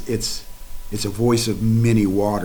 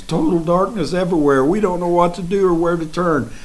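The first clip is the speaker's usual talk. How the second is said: raised, despairing voice; despairing lament; 6 semitones higher than usual. Retold or imitated. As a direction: sound lost and beaten. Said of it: "That was the feeling of William Branham".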